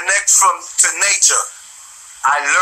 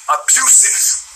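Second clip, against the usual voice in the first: unvoiced whisper, pitched up; whispered word; 6 semitones higher, much slower than usual. Real, not acted. Ranting vlogger whispers the word he was searching for. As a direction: breathe the word out as he finds it.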